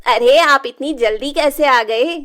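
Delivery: loud, bright fake welcome; feigned surprise. Rajni faking happy surprise at her husband's return, loud. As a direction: act pleased but flustered.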